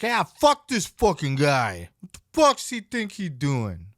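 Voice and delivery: hammed-up disgust at the new guy; mock angry Nash. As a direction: growl it out like a bitter veteran. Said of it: "was his general tone about this".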